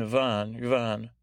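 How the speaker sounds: Yvonne said deliberately, punched on each try; punched names. Shown as a demonstration. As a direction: punch out "Yvonne" as if checking the pronunciation. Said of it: "I really punched those there".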